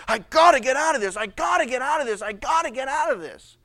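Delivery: loud, urgent repeated plea; fading as it repeats; agitated, trapped. Retold or imitated. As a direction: restless young husband. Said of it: "they're agitated, they're angry".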